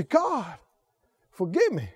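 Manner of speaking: hushed repentant prayer; humble plea. Acted. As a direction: pray it quietly, humbled before God.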